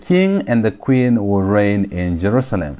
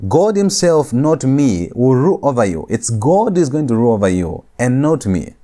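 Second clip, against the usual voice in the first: emphatic contrast, "God" raised over the rest; stress on GOD; 2 semitones higher than usual. Shown as a demonstration. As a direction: punch "God" against "me". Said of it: "to place emphasis on Yahweh".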